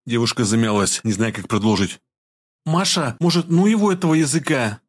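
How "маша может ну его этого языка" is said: put-on high, pleading girl's voice; frightened friend begging; plaintive plea. A narrator's reading. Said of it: "попросила жалобным тоном Вика".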